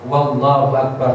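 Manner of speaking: "Wallahu Akbar" with a w sound added before Allahu; extra waw sound. Shown as a demonstration. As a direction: say "Wallahu Akbar", slipping a w onto the start. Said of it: "tidak boleh menambah huruf waw sebelum lafaz jalalah".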